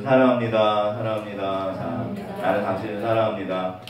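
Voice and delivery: tender love confession. Shown as a demonstration. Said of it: "옆에 분 손잡으시면".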